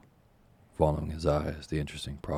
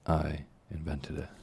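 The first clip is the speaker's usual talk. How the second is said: proud. Acted. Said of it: "drew himself up with great pride".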